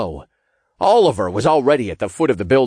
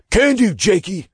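chirpy high imp voice; 10 semitones higher, 3 dB louder than usual. A narrator's reading. Imp accepting his orders, high-pitched and eager. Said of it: "the imp answered".

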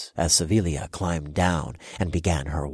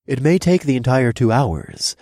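devilish smirk; 7 semitones higher, 6 dB louder than usual. Acted. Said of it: "I said with a devilish smirk".

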